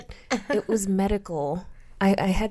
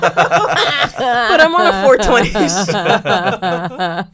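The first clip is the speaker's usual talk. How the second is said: loud laughing through words; 4 semitones higher, 12 dB louder than usual. Real, not acted. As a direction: crack up while talking.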